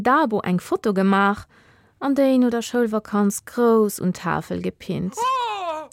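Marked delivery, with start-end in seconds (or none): 5.2-5.9 high startled "Oh!"; a sudden shocked gasp; surprised gasp. Acted. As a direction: gasp as if caught off guard. Narrator gasps at the photo.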